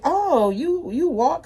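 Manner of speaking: high, sing-song mock of her surprise; imitating a nosy acquaintance at Walmart; mocking the woman. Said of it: "she was like".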